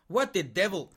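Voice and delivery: a flash of temper; angry outburst. Acted. Creditor loses his temper.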